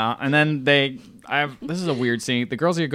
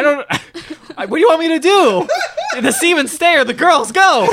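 laughing; 11 semitones higher, 6 dB louder than usual. Retold or imitated. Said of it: "the guy who has the semen is like".

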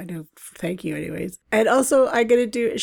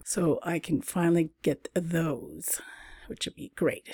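whisper; 6 dB quieter than usual. Real, not acted. Whispered aside.

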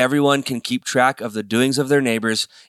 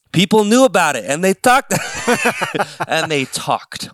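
laughing; 7 semitones higher, 4 dB louder than usual. Real, not acted. Laughing at his own accent slip.

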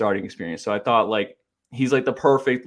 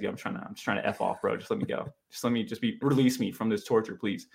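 mock pleading mutter; 6 dB quieter than usual. Begging to escape hijacked interview.

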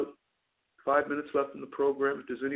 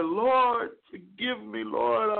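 higher, louder cry of mock anguish; anguished prayer; 5 semitones higher, 3 dB louder, much slower than usual. Preacher voicing a broken sinner, anguished plea. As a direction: plead to God from the floor. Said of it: "There's real anguish, brokenness".

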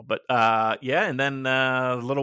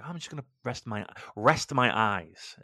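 half-asleep, drag it out; drowsy. Retold or imitated. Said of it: "I was like".

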